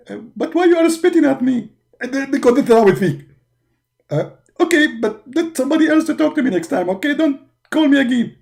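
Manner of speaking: 1 whiny prophet. Acted. Muhammad annoyed at caller.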